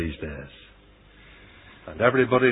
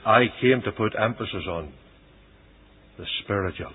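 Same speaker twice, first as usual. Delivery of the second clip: soft, lowered preaching answer; solemn affirmation; 3 semitones lower, 6 dB quieter than usual. Retold or imitated. Christ telling the people why he came, hushed. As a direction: drop to a quiet, measured close.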